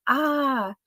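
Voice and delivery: a short high "Ah!" cried out mid-reading; read-out scream. Retold or imitated. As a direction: jump up high on the "Ah!" as if frightened. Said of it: "and she will scream out".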